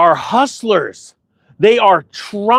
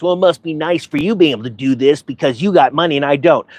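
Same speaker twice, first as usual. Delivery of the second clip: lower, whining mimicry of a complainer; mock whiny complaint; 5 semitones lower than usual. Mocking the whiners who blame his money, whiny. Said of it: "But then you get those whiners".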